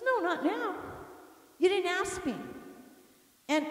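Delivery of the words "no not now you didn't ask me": high-pitched mimicked huffy refusal; mock a wounded husband's sarcastic retort. Rejected husband snubbing his wife over grapes, sarcastic. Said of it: "he talked sarcastically to me".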